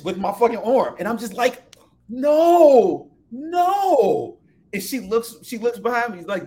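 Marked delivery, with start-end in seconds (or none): 2.1-4.4 high, loud recoiling no no; alarmed no. Retold or imitated. To the stripper grabbing his arm, a loud alarmed refusal. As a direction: back away from her, voice jumping up.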